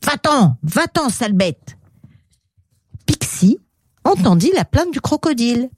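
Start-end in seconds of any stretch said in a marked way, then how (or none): 0.0-1.8 mildly mean shooing away; nasty dismissal. Acted. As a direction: send the beast off with a touch of spite. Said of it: "avec méchanceté". (rejet un peu méchant)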